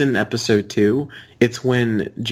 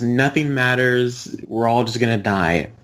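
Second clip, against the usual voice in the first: quoting Rick. Retold or imitated. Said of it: "favorite quotes from Rick and Morty".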